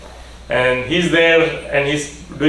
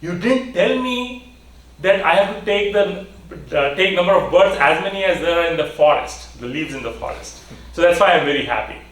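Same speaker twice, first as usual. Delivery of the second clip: happy explanation; 4 semitones higher than usual. Acted. Happy man explains his joy.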